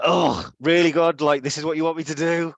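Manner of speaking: high, loud disbelief at God; incredulous. Retold or imitated. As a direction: protest in mock disbelief. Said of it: "And so I'm like".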